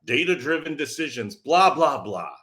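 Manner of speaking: a lightly done, hammed-up ad announcer. Shown as a demonstration. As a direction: read it like a mock commercial pitch. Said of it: "I'm gonna put on my announcer voice".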